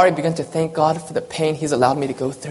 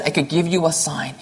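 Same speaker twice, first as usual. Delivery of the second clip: tender; 4 dB quieter than usual. Acted. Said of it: "And he tenderly said".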